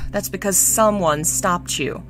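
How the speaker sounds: huff, then a dry comeback; mildly acted scoffing; snorted retort. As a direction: snort before replying. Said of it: "Shi Lian snorted".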